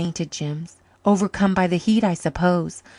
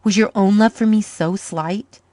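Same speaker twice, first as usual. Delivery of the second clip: stern; 4 dB louder than usual. Acted. Man sternly rebuking the woman he loves. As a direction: scold her for doubting him. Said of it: "he said sternly".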